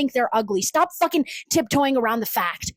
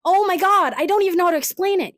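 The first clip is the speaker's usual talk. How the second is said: mock TikTok talker; 5 semitones higher than usual. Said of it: "they're talking like".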